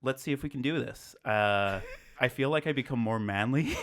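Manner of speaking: put-on manly American accent. Shown as a demonstration. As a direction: tougher Midwestern guy accent. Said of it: "sound like just a tougher Midwestern guy".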